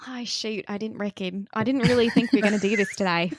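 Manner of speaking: put-on a light Australian accent. Asked by a co-host to narrate, light Australian accent. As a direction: slip lightly into an Australian accent, half-joking. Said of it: "you do a great Australian accent".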